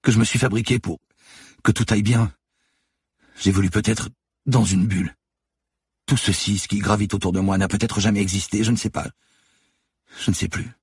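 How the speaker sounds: high, halting, lost voice; faltering, stammering. A narrator's reading. Manon doubting her own past, faltering near sobs. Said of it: "bafouilla-t-elle".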